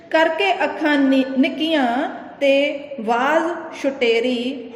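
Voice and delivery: slow verse, sinking towards the end; poem recitation. Acted. Teacher reciting the old man's verse to students, slow. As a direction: draw each line out like a recited poem.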